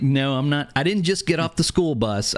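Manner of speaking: indignant retort. Retold or imitated. Young dad answering online players, indignant. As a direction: defend yourself against a cheeky assumption.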